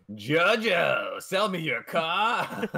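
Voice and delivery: smug villain line. Retold or imitated. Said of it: "energy that was coming out there".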